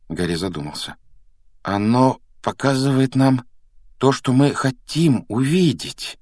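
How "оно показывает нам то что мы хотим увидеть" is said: higher, louder, drawn-out phrasing; slow, deliberate. A narrator's reading. Harry working out the mirror's secret for Dumbledore, slow and deliberate. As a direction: spell it out slowly, word by word. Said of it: "медленно выговорил он".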